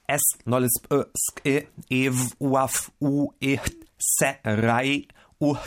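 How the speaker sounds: alphabet spoken in reverse sounds; backwards speech. Shown as a demonstration. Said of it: "das Alphabet rückwärts".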